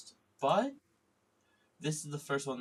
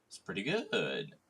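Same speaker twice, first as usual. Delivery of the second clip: voice crack. Real, not acted. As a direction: voice cracks mid-phrase. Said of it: "bit of a voice crack there".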